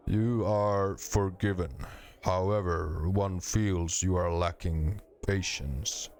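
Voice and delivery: slow, ponderous stone voice; boulders grinding voice. Acted. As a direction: speak like grinding rock, slowly. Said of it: "a voice like two boulders grinding together".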